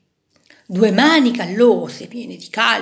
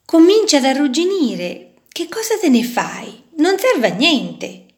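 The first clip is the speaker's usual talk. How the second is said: dismissive; 5 semitones higher, 4 dB louder than usual. Acted. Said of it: "replicò un altro".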